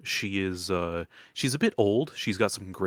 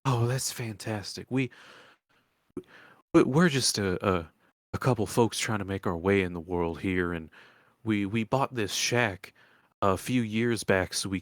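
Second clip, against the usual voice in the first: lightly voiced country woman telling her troubles; old swamp woman, aggrieved. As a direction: spin out a folksy tale of woe.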